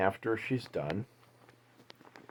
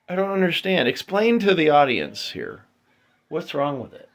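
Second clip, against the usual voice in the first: raised playful interrogation; loud teasing questions; 4 semitones higher, 4 dB louder than usual. Real, not acted. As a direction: quiz her loudly, teasing. Dad questioning daughter about light.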